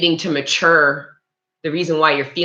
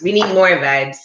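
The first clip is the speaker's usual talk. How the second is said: hyped up; 4 semitones higher, 4 dB louder than usual. Shown as a demonstration.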